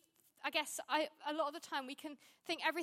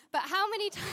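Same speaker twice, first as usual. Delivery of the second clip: breaking into laughter; 4 semitones higher, faster than usual. Real, not acted. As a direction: crack up mid-word and lose the sentence. Cracks up at own confession mid-sentence.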